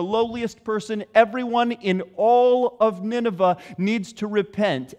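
rally the whole city to repent; king urging all Nineveh to repent, loud and urgent; royal proclamation. Retold or imitated.

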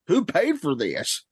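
lightly voiced old prospector; a hint of a grizzled old miner; gruff mountain man. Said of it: "it's Prospector".

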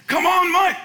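far-off yell, high and drawn out; old coach cheering from the stands, slow and loud. Retold or imitated. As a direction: call out across a ball field.

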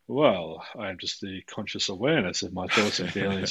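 lightly put-on earnest solemnity; a deadpan send-up of deep self-awareness; mock-serious. Panelist introducing himself to tease the panel, mock-serious. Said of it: "just to take the piss".

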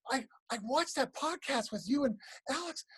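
awed question, slowing and rising at the end; wide-eyed comic. Retold or imitated. Young comic asks mentor about live crowds, wide-eyed. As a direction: marvel like a green young comic. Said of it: "wide-eyed comic going".

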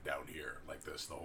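deep Goron voice. Shown as a demonstration. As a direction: boom it out like a big Goron. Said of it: "it's hard to do a young Goron".

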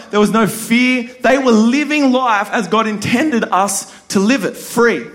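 earnest, steady sermon voice; preaching. Acted. Pastor teaching the congregation about the garden, preaching. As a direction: preach it with conviction.

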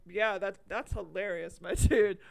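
loud hammed-up cheer; overdone fake enthusiasm; mock enthusiastic fan. Mocking fan of Midsummer.

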